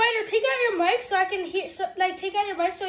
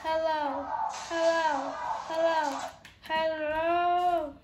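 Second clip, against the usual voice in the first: creepy repeated hellos, lightly put on; spaced-out hellos, the last drawn out; creepy noises; 3 semitones lower, much slower than usual. Player testing the mic for creepy noises, mildly creepy voice. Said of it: "We have to hear the creepy noises".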